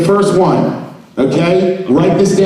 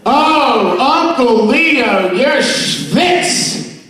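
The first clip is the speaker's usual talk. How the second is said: mock teasing; 6 semitones higher, much slower than usual. Teasing Leo about sweating.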